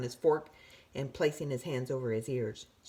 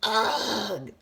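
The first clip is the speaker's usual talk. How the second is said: weak moan; 5 semitones higher, 4 dB louder than usual. A narrator's reading. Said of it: "moaned the tooth weakly".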